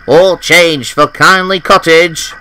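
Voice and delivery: loud, slow, grand station announcement; express engine voice. A narrator's reading. Percy announcing his arrival like an express engine, loud and slow. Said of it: "in his best express engine voice".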